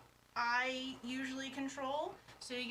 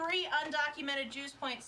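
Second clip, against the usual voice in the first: louder; 3 semitones higher than usual. Real, not acted. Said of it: "I should say that a little bit louder".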